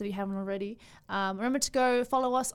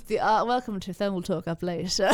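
hammed-up British host, amused; loose, joking British accent; put-on accent, British attempt; 3 semitones lower than usual. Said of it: "is that your best accent".

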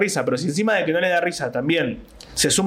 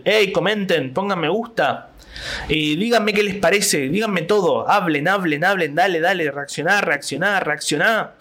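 mock influencer begging; 3 semitones higher, slower than usual. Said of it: "La interacción".

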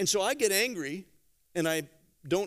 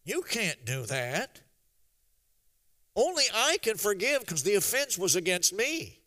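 mild protest from the man you punched; lightly voiced, understated objection; indignant victim; 2 semitones higher than usual. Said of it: "is gonna be going".

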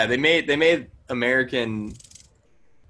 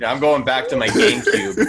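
laughing quote; 5 dB louder than usual. Retold or imitated.

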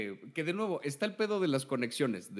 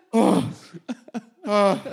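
mock labor groans; 4 semitones higher, 7 dB louder than usual.

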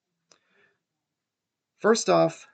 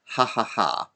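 spelt-out storybook laugh; splendid laugh; 2 semitones higher than usual. A narrator's reading. Scrooge out of practice at laughing, acted laugh. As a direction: act out a short, hearty ha-ha-ha. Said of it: "it was a splendid laugh".

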